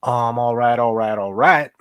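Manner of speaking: Matthew McConaughey catchphrase. Retold or imitated. Streamer hamming it up for viewers, McConaughey catchphrase impression. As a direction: do the famous "all right, all right, all right" like a Hollywood Texan. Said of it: "I just turned into Matthew McConaughey".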